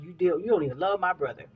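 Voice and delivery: mock argument outburst, rushed; retold heated yell. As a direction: replay the argument, fast and fairly loud. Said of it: "we were just yelling at each other".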